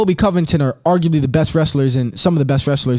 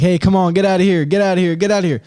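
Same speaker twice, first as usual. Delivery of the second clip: raised, urgent hiker calling out; mock calling out, a little higher; hiker shooing bear; 3 semitones higher, faster than usual. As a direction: imitate someone shooing off a bear.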